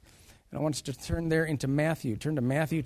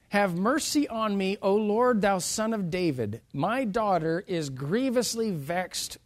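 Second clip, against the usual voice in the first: louder, higher opening plea; crying out; 5 semitones higher, 3 dB louder than usual. Acted. Woman pleads with Jesus for her daughter, crying out. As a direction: cry out for mercy, understated, as read from scripture. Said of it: "cried unto him".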